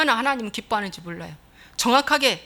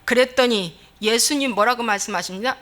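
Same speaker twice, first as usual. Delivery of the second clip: ordinary talk, nothing marked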